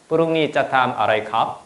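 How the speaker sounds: lightly imitated Thai question, rising at the end. Shown as a demonstration. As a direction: demonstrate how Thai sounds. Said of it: "이런 식으로".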